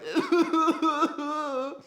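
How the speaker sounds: a high burst of real laughter. Real, not acted. Laughing about being filmed sobbing next to his friend, high laugh. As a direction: laugh at your own sobbing.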